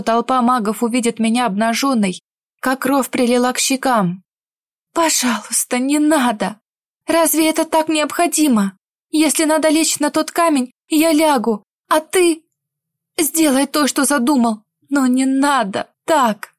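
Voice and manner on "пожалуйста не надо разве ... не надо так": frightened pleading. Acted. Heroine begs not to undress.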